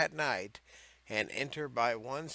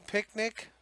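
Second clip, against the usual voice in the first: high, loud burst of disbelief; incredulous exclaim; 10 semitones higher, 4 dB louder than usual. Real, not acted. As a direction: pop the word picnic up in disbelief. Saved best banned act for last.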